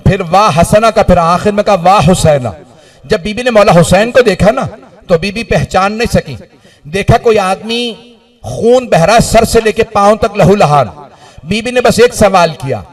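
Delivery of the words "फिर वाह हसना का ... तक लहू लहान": majlis lament recital. Acted.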